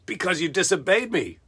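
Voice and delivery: quick mock exclaim, high on "Oh my God"; mock Balaam. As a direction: rush it out half-panicked. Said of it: "not freaking out, like".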